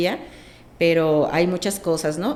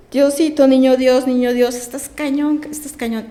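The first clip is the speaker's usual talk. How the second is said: high, loud cry to God that fades at the end; retold shouting; 5 semitones higher, 5 dB louder than usual. Mother shouting to the Christ child at home, high loud cry fading out. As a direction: call out to the Christ child, reliving it. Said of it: "yo gritaba ahí en la casa".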